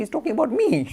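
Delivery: high, loud astonished exclamation; imitated cry of disbelief. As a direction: exclaim it in amazement, acting out the devotee. Devotee astonished that guru knows.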